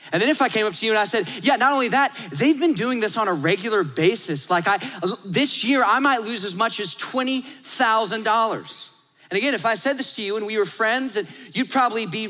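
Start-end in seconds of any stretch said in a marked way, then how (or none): 1.4-8.9 upset. Retold or imitated. Friend escalating the complaint.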